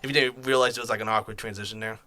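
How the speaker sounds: talking out of breath after stairs; breathless, catching air between phrases. Real, not acted. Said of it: "Sorry, I'm out of breath".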